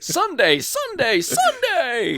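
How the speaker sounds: high booming hype announcer; monster truck ad shout. Retold or imitated. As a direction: yell it like a truck rally ad.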